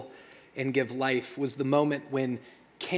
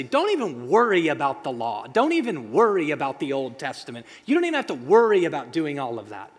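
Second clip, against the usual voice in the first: mock dismissive Jesus; 7 dB louder, faster than usual. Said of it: "Was Jesus trying to say".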